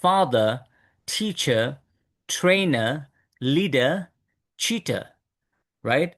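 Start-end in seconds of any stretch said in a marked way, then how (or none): 0.0-5.0 "father, teacher, trainer, leader, cheater" with silent final r; non-rhotic British "father, teacher, trainer, leader, cheater"; British pronunciation. Shown as a demonstration. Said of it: "British people don't pronounce it".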